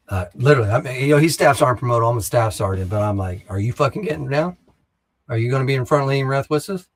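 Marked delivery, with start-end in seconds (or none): 3.5-6.9 higher-pitched, confrontational retold question; retold challenge. Staff sergeant challenging a fellow staff sergeant, retold confrontation. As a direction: put the challenge to him, pitched up.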